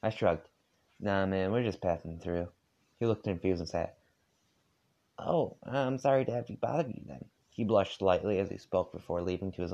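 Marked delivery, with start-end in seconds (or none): 1.0-2.5 put-on lazy southern accent. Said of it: "I'm trying to do a southern accent". 5.2-7.3 put-on lightly higher, shy polite boy; a hint of an embarrassed young boy; John's voice. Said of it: "get my voice for John".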